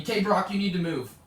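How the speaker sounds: mock a teacher calling out a student; imitated yelling. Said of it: "then she yells at me".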